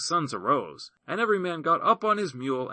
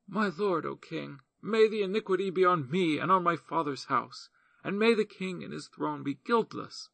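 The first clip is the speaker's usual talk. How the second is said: a hint of a higher, earnest woman's voice; lightly voiced pleading widow; 5 semitones higher than usual. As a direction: plead your case gently to the king.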